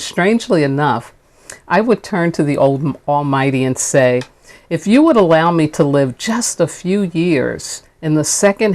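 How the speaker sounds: measured, lightly oratorical reading; speech reading. Acted. Minister reading King's speech to listeners, measured oratory.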